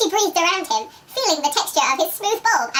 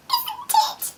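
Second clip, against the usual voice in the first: high, laughing squeal; mock squeal. Reader repeating the line to co-hosts, squealing with laughter.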